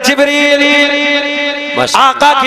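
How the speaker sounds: rhythmic chanted lineage, held at full preaching force; preaching recitation. Acted. Preacher reciting the lineage to the gathering, full preaching. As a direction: intone each name to the crowd like a sermon. Narrates hadith in sermon voice.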